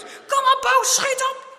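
high, loud urging; frantic, forceful encouragement; urgent shouting. A narrator's reading. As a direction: yell your friend onward. Friend yells to hurry.

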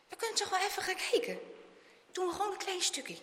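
put-on high, quick, pleading boy; coaxing. A narrator's reading. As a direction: coax a reluctant friend. Boy coaxes his hesitant friend.

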